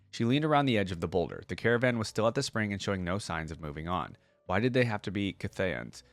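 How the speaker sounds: steady storyteller read of legend lore; story narration. Acted. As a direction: read it like an epic tale to viewers. Reading the short story aloud.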